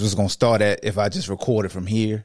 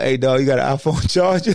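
laughing mock shout. Acting out a Tesla driver.

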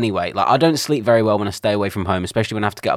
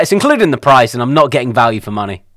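louder, mock-indignant moan about the price; indignant complaint; 2 semitones higher, 6 dB louder than usual. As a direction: act out grumbling that you're getting no value. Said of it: "But I'm like".

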